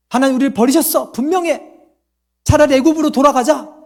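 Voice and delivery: 원망하는 이스라엘 백성. Acted. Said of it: "그게 이스라엘 백성들이에요". (원망하는 백성 흉내, 높아진 목소리)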